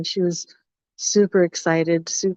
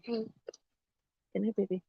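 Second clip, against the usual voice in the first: tender, much softer aside; soft goodnight; 3 semitones higher, 15 dB quieter, faster than usual. Real, not acted. Aside bidding baby good night.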